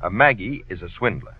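crisp announcer explaining the moral; polished radio host; old radio announcer. Acted. Radio narrator explains racket.

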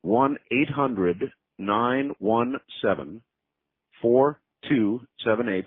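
slow and clear digits; slow, deliberate number read. Shown as a demonstration. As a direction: spell out the number slowly. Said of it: "Again, the number".

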